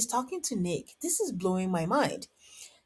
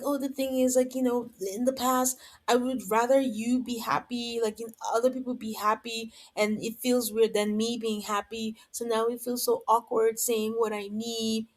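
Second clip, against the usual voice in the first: imitating Courtney; 3 semitones higher than usual. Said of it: "you know, she's like".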